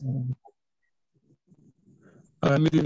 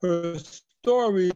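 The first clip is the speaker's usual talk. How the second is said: choppy, breaking-up audio; words cutting out over a weak line; bad connection; much slower than usual. Real, not acted. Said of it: "You're breaking up".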